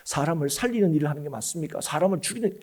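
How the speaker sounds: quiet, grave appeal to the congregation; earnest questioning. Pretend. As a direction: ask it softly, as if in all seriousness. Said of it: "제가 정말 진지하게 묻습니다".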